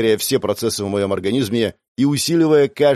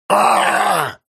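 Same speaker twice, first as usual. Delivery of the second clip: high, pained shout; a villain hit full in the face, screaming; agonized scream; 7 semitones higher than usual. A narrator's reading. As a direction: howl in agony. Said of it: "И Архонт завопил".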